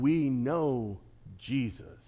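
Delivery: low, soft menacing spirit voice; low evil spirit. Acted. Preacher voicing the spirit, low and soft. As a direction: say it like a quiet threat. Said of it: "His evil spirit said".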